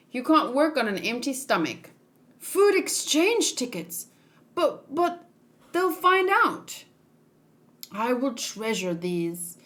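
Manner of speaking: lightly acted anime character voices, each figure a bit different; voiced manga characters. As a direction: read the panel dialogue as the characters, lightly voiced.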